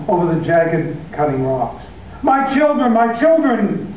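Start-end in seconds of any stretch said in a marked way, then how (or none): 2.2-2.9 put-on high, desperate cry of "My children"; a frantic father's first call; shouted. A narrator's reading. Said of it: "he shouted". 2.9-3.9 put-on "my children" drawn out slowly and high; a father's slower, pleading second call; shouted. A narrator's reading. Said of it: "he shouted".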